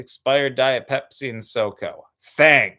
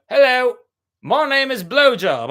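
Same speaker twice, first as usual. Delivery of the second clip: loud, higher mock caveman introduction; 8 semitones higher, 7 dB louder than usual. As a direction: announce yourself like a dumb caveman. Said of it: "as if you were a caveman".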